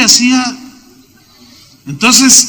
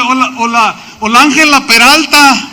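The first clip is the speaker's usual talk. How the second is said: mock opera fuss; 3 semitones higher than usual. Mocks operatic congregation singers.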